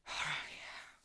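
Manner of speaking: hushed, joking ogle; playful creepy whisper; mock-sultry whisper. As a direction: whisper it with pretend relish. Joking foot-fetish ogling.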